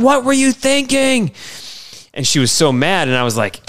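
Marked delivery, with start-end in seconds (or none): 0.0-1.3 high, slow wife's exasperated scolding; the cleaned-up version of her scolding, drawn out; scolding wife, toned down. Retold or imitated. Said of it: "But she's like".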